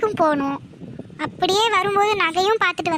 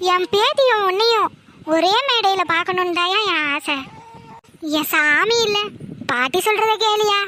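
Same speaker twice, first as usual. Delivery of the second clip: a grandmother near tears over her wish; tearful plea. Acted. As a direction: voice catching with tears as she pleads. Grandmother pleads with emotional wish. (கண்ணீருடன் கெஞ்சுதல்)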